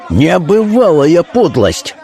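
high, drawn-out indignation; outraged cry. A narrator's reading. Notary protesting at the demand, outraged cry. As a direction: cry it slowly, high and appalled. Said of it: "закричал нотариус".

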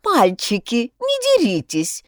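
shrill high panicky plea; hysterical. A narrator's reading. Antenna begging the boys not to fight, hysterical. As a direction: squeal to stop the fight. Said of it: "заистерила антенна".

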